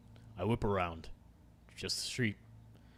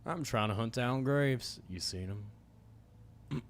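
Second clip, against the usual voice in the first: a hint of a drawling menacing cowboy; lightly voiced stranger, venom under the charm. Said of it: "my cowboy voice".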